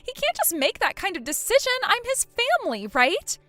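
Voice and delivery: high and fast, frantic; a rush of high frantic protest; panicked disbelief. Acted. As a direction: scramble to deny it. Tanya panics at being cut off.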